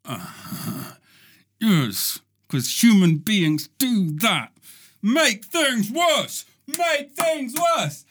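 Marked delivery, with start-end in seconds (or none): 5.0-8.0 slow chant rising higher into a hammed-up cry; building mock rant. Mocking humans, ranting.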